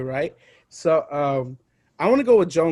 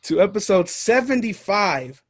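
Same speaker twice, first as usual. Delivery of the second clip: host announcement; 3 semitones higher than usual. Acted.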